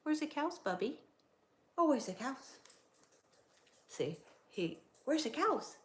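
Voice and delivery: high, excited asking the dog; excited dog talk. Retold or imitated. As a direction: hype the dog up about cows. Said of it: "if he sees cows".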